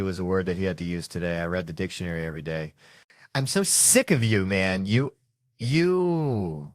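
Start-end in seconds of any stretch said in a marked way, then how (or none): 3.3-6.7 fed up, building to a drawn-out "you"; higher, exasperated outburst. Acted. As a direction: lean hard on "sick", then stretch the last "you". Mock quarrel, fed up with him.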